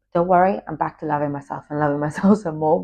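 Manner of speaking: quick, laughing through the words; laughing reassurance. Real, not acted. Reassuring viewers she is back, laughing.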